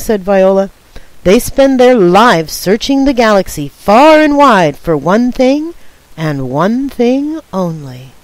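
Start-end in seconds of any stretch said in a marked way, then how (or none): 1.2-8.1 dramatic storytelling. Acted. Dramatic alien legend for brother.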